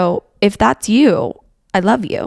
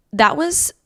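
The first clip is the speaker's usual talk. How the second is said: out of breath; 4 dB quieter than usual. Real, not acted. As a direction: talk while catching your breath. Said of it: "I am out of breath".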